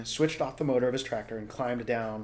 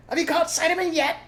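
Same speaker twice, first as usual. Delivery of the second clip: high, loud call across; loud high farmer calling; called back; 8 dB louder than usual. Acted. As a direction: shout the question up. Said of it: "Bean called back".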